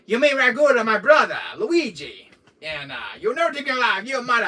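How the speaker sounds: high, loud laughing cartoon yell; hammed-up fury, cracking up; mock angry rant. Cartoon character ranting at Luigi, high, loud, half laughing. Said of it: "And he says".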